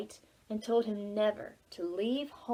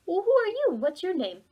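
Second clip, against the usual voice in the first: put-on young Oliver; 6 semitones higher than usual. Oliver questions the bug.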